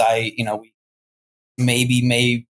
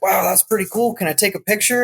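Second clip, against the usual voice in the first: mildly wowed, higher-pitched retelling; impressed cop, retold; 7 semitones higher than usual. Cop asking the falconers for a picture, mildly impressed. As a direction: lightly voice an impressed onlooker, pitched up.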